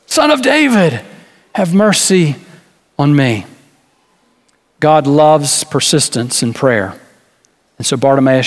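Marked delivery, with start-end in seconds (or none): 0.0-3.5 a beggar's pleading cry, pitch leaping up on "David"; yelling louder. Retold or imitated. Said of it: "kept on yelling that much louder".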